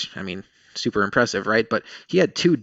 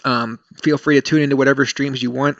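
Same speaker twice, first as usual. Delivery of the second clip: choking on water; 3 semitones higher, 3 dB louder than usual. Real, not acted. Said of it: "I just swallowed a drink of water, and it went down the wrong throat".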